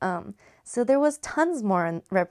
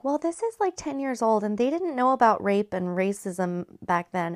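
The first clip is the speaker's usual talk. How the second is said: mocking higher-pitched naive voice; naive podcaster; 3 semitones higher than usual. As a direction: mimic a clueless kid explaining. Mimics dismissive young podcasters.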